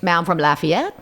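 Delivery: lilting into a Cajun accent. Shown as a demonstration. Louisianan telling where home is, in a Cajun accent. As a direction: slip into home-town Cajun speech. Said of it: "That's my Cajun accent I'm talking".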